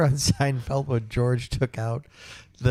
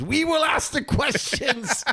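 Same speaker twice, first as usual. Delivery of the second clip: put-on German officer accent, pitched very high; 14 semitones higher than usual. Retelling a knock-knock joke, the Gestapo man slaps the other guy, in a German accent. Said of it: "in his German accent, he goes".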